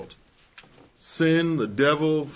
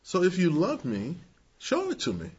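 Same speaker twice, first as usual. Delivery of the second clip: subtle seductive Delilah; 5 semitones higher than usual. Retold or imitated. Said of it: "in a very subtle way".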